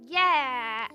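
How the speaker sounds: ordinary talk, nothing marked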